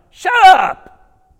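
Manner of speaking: loud, high "Shut up!"; exasperated loud yell; mock shout. What you'd say to screaming men.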